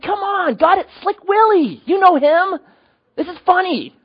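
very high, squeaky pleading; high-pitched incredulous whine to God; mock protest. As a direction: protest like it's obviously hilarious. Acts himself pleading with God.

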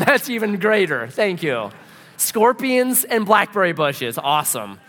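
mock delight through a laugh; sarcastically thrilled, stretching it out; sarcastic enthusiasm. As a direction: act out sarcastic gratitude. Sarcastic reaction to unwelcome news.

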